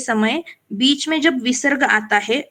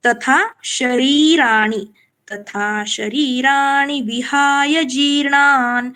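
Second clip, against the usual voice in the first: slow, measured Sanskrit verse; slow shloka recital; much slower than usual. Shown as a demonstration. Teacher recites the verse line slowly. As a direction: chant it slowly, half-line by half-line. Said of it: "और उसी तरह से".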